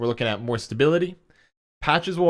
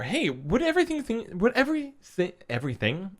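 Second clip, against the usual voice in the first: tripping over words, tired; stumbling, sleepy restarts; sleep deprived; 9 semitones higher than usual. Real, not acted. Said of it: "I can't talk today".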